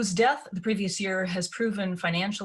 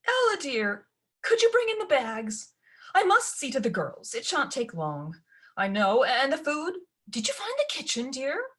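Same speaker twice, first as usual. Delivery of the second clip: higher, fluttery coaxing; coaxing stepmother; 6 semitones higher than usual. Acted. Stepmother coaxes Ella to fetch the bags, higher voice. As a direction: wheedle Ella into the chore.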